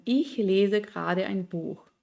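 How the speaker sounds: slow, Ich stressed, falling on Buch; falling statement tune. Shown as a demonstration. Teacher showing German statement intonation, slow fall. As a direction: let it fall at the end. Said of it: "esa entonación que tiene el alemán".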